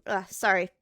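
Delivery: disgusted ugh, then apologize; groan, then a quick sorry; annoyed ugh. Real, not acted. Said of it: "It tickled the inside of my nose too much".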